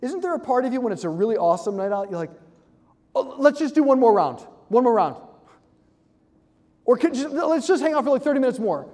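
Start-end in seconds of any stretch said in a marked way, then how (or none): 3.1-5.2 eager mock pleading, raised and a bit louder; giddy and young. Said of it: "sound, like, really, like, giddy and young". 6.8-8.9 higher-pitched, eager wheedling; giddy and young. Acted. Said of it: "sound, like, really, like, giddy and young".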